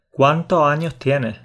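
slow "¿cuántos años tienes?" with every final s dropped, "cuánto año tiene"; Andalusian dropped s. Shown as a demonstration. Teaching a friend to speak Andalusian, no final s. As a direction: drop all the final esses, slowly. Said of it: "Va a ser como".

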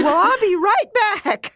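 laughing at herself, promising to fetch the gift; laughing promise. Retold or imitated. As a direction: chuckle it out as you rush off. Hurried promise while laughing.

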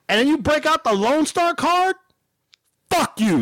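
retold indignant rant; pissed off. Shopper railing at woman with benefits card, pissed off. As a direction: rail at her, hammering the insults. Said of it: "I was pissed off".

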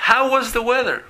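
high, loud teacher model; modelling a question form for the class; model phrase for repeating. Shown as a demonstration. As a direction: lift the whole question high for copying. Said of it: "Y la otra forma es".

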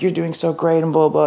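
high, syrupy fake praise; mock flattery. Mocking crew's fake flattery.

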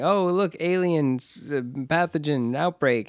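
mock alarm system. Mocking the test announcing an outbreak, mock-cheery. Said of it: "the test is saying".

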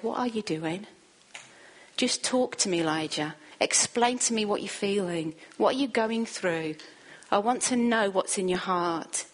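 soft, tender coaxing; gentle invitation. Acted. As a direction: speak like someone sitting beside a hurting friend. God invites Elijah to talk.

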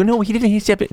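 high, whiny mock denial; mock defensive protest. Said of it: "So people go".

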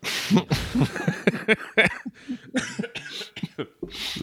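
hard laugh breaking into coughs; laughing fit. Real, not acted. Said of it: "so I laugh too hard, I just start coughing".

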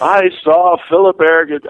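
grand, self-important witness proclamation; full of myself. Retold or imitated. Witness testifying about Philip Berrigan to the court, full of himself. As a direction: play up your own self-importance on the stand. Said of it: "I was full of myself".

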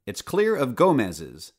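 villain losing patience with the squirrels; snapped. Acted. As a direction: bite the words off impatiently. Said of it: "Doctor Simon snapped".

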